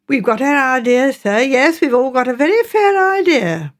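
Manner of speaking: a hint of a confiding country housekeeper; lightly voiced local woman, sure of herself; mildly voiced village woman sharing gossip. Narrator voices Mrs Baker.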